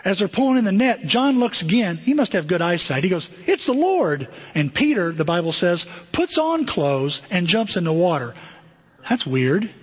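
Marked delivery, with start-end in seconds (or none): 3.4-4.3 high-pitched cry of recognition; excited recognition. Acted. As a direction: announce a thrilling sighting. John spots Jesus from boat.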